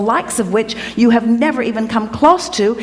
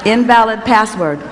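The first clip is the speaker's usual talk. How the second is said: talking calculator voice. Pretend. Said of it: "it says".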